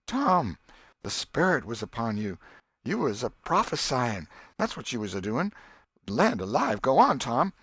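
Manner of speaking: put-on awed old aunt; an old aunt convinced of a prophecy; Aunt Polly voiced.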